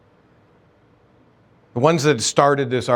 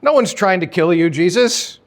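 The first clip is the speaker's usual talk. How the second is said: scoffing denial; 6 semitones higher than usual. Acted. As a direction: act offended, wave the claim away. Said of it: "And they're like".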